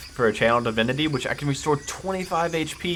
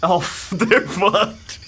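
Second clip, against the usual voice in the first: high, laughing glee; laughing gleefully; 7 semitones higher, 4 dB louder, much slower than usual. Real, not acted. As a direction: gloat through laughter. Cleric vs undead, laughing.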